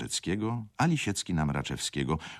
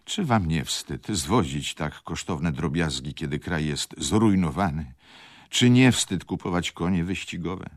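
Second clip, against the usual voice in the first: raised voice; 3 semitones higher, 6 dB louder than usual. Acted. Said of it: "podniesionym głosem".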